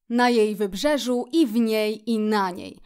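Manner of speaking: "w niej" and "na niej" set apart emphatically; correcting emphasis. A narrator's reading. Szczur corrects Kret, "w niej" and "na niej" stressed. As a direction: add "i w niej, i na niej" as pointed corrections. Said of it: "sprostował znowu szczur".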